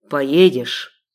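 low, threatening male voice; a domineering sheikh, menacing; menacing low question. Acted. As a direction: lean in and threaten her.

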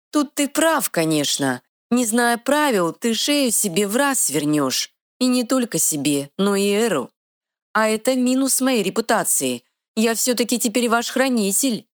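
high, quick little fairy voice. Acted. Fairy scolding the troll, high and bossy. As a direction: play a tiny sassy fairy, pitched high.

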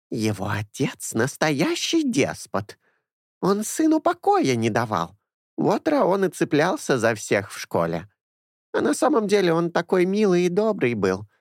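put-on a fussy old nanny doting on her boys; old woman. A narrator's reading. Old woman Anessa speaks.

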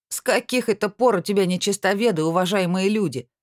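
mocking scoff. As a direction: scoff at him with a sneer. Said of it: "насмешливо фыркнул первый".

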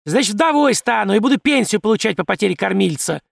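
wife shouting defiance at the magistrate. A narrator's reading. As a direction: fling it out with a stamp of the foot. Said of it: "выкрикнула женщина и топнула ногой".

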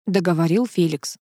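ordinary delivery, nothing marked

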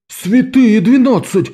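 «двенадцать» высоко и протяжно, медленно, с падением; театрально ахнуть; наигранное изумление. A narrator's reading. Calo exclaims. (изумлённый возглас Каллы)

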